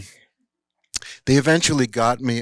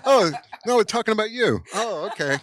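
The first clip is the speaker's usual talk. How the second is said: laughing reassurance; 12 semitones higher, faster than usual. Retold or imitated. Demy laughing to reassure the young director, high laughing voice. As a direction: laugh it off brightly. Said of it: "And he was like".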